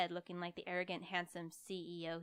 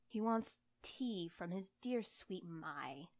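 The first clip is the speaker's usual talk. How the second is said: teasing; slower than usual. Acted. Teasing, Takigawa grinned.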